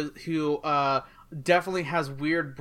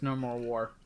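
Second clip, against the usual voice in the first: Scarlet Witch voice; 5 semitones lower, 8 dB quieter than usual. Retold or imitated. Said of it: "Scarlet Witch voice".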